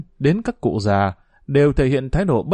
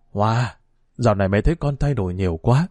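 probing; 2 semitones lower than usual. Acted. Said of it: "bằng giọng dò xét".

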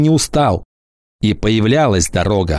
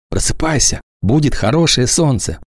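tender whisper; 3 semitones higher than usual. Acted. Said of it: "Валька прошептал".

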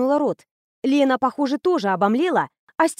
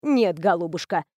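cooling reply; 5 semitones lower than usual. Acted. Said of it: "остудила её пыл Степанида Андреевна".

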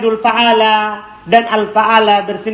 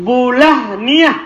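slow teaching model; 2 semitones higher, slower than usual. Shown as a demonstration. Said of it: "wa bu".

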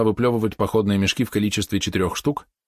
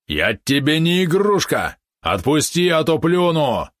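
slow, high, indignant yap; yappy small dog; 8 semitones higher, 4 dB louder, slower than usual. Acted. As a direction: yap like an offended little dog. Valeron angrily refusing hugs.

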